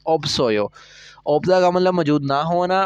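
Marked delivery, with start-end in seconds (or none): 0.1-0.7 "ओप सोयो" with the second consonant moved onto "सोयो"; teacher's model of "ओप सोयो" with the linked consonant; liaison reading. Shown as a demonstration. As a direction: read "ओप सोयो" as op, then the s carried up into sojo. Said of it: "मैंने दोनों को पढ़ लिया ओप और इसको ऊपर ले गया सोयो".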